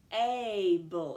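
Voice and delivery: "Stable" as sss-t, loud long aaay-bul; stretched out. Shown as a demonstration. Teacher asks open or closed, "Stable" stretched out loudly. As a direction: split off the st, punch and hold the vowel in "Stable". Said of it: "Let's listen for the vowel".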